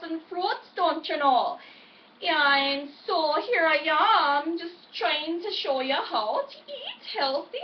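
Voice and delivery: light imitation of a Norwegian neighbor's accent; a folksy neighbor's Norwegian accent, lightly done. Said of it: "And this is the way my neighbor talks".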